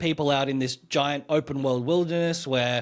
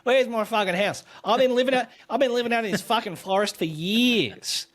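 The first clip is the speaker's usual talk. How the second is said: mock angry refugee; 8 semitones higher than usual. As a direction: whinge like a bitter outback refugee.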